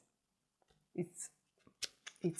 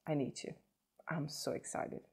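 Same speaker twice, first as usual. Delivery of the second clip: breathless hushed thrill; excited whisper; 6 dB quieter than usual. Real, not acted. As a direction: whisper I'm so excited to herself. Can't wait to try lipstick.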